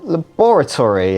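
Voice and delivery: LABORATORY climbing into a heavy BOR; effortful Australian pronunciation. Shown as a demonstration. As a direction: start small and heave onto BOR in LABORATORY. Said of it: "it just feels more effortful".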